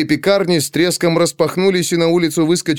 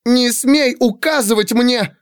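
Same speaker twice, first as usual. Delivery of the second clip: high, drawn-out indignant cry; tearful cry; 11 semitones higher, slower than usual. A narrator's reading. Pandora pounding the servant's chest, tearful indignant cry. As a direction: cry out while swallowing tears. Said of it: "крикнула она, глотая слёзы".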